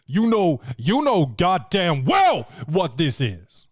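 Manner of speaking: a hammed-up Denzel, slow and menacing; Denzel impression. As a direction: lean into it like Denzel calling her bluff. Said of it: "And Denzel's like".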